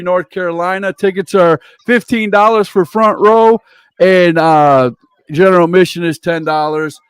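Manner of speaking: wrestling announcer plugging upcoming shows; event promo read. Real, not acted. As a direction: punch out event names like a ring announcer. Host runs through show promos.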